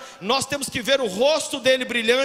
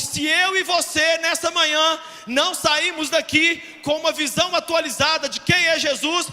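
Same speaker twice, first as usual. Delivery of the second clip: fiery preaching; 4 semitones higher, 4 dB louder than usual. Real, not acted. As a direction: lift the whole church to its feet. Preaching climax.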